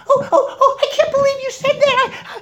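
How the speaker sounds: very high, squeaky falsetto huff; indignant mouse. Acted. Insulted little mouse to the woodsman, indignant squeak. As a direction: squeak it like an affronted tiny mouse. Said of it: "he became indignant".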